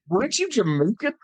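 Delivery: high, baffled imitation; mock incredulous question. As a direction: quote someone in exaggerated disbelief. Retells Triple H's puzzled question.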